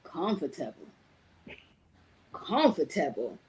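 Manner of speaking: mock the word back, low and deliberate; incredulous drill sergeant. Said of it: "He said".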